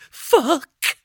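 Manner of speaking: high, loud yelp; frightened curse. A narrator's reading. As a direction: gasp out the swear in panic. Frightened boy swears again.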